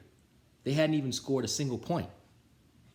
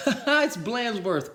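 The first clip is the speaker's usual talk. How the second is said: high, loud, slow shout; 13 semitones higher, 7 dB louder, much slower than usual. A narrator's reading. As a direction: call out the unmasking. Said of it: "cried the guys".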